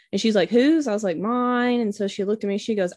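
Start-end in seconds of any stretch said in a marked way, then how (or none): 0.5-0.9 high, louder one-word challenge; retold sharp demand. Retold demand from irritated airline lady. 1.2-1.8 higher, drawn-out one-word answer; retold reluctant admission. Retold sheepish answer to airline lady.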